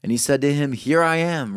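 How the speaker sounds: measured, solemn reading of scripture. Acted. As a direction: read the verses with weight. Reads Genesis aloud to congregation.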